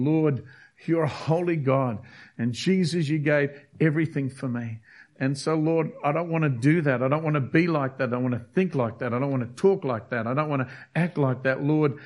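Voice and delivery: earnest prayer. Retold or imitated. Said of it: "Godly repentance is where there's a conviction saying".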